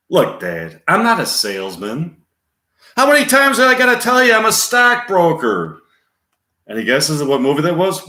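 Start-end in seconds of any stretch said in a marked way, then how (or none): 0.1-5.8 exasperated son, rising to a high shout; Charlie Sheen. Acted. Son setting Dad straight, exasperated. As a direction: build from firm protest to a loud outburst. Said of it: "Charlie Sheen".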